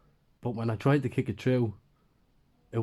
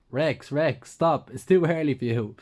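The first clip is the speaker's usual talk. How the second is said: raised, higher voice scolding the dog; a sharp, loud "stop" for an excited dog; telling the dog off; 5 semitones higher, 6 dB louder, slower than usual. Acted. Scolding the dog licking his face.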